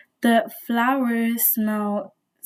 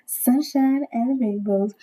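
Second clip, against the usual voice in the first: little wiggle; slower than usual. Pretend. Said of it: "It's like a little wiggle".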